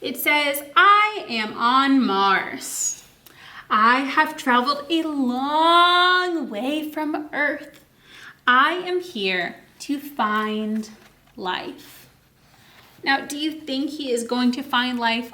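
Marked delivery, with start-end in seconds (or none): 0.8-12.1 slow, earnest astronaut reading the book; lightly voiced astronaut. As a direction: read his words slowly, a little wistful. Reads astronaut's words.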